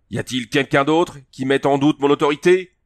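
the chief roaring at his whole circle of warriors; roared. A narrator's reading. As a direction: bellow the challenge over the fallen man. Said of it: "rugit-il".

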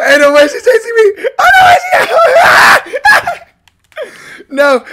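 high panicked yell; being chased. Real, not acted. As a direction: squeal while fleeing the killer. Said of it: "being chased by the killer".

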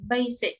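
Basic with a clear S, BAY-sick; model pronunciation. Shown as a demonstration. Teacher models word twice for the class. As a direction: say Basic crisply with an S. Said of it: "Lớp mình đọc cho cô hai lần".

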